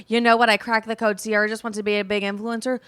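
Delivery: loud, sarcastic know-it-all voice; mocking loud quote. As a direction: parody the smug fan loudly. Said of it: "So being like".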